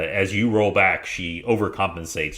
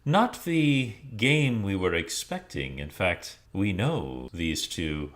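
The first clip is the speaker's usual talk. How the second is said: drow leader; 3 semitones lower than usual. Acted. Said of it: "the leader says to Zuana".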